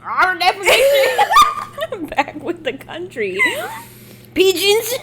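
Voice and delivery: high, slow country twang; Texan accent. Pretend. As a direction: drawl it like a Texan. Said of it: "The Texan comes out sometimes".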